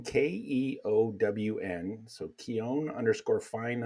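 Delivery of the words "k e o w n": spelled out slowly. Shown as a demonstration. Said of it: "his Instagram is Keown".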